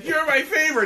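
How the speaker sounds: high-pitched imitation of a fan's cry; mock gushing holler; retold yell. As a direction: imitate her yelling it. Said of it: "and she yells".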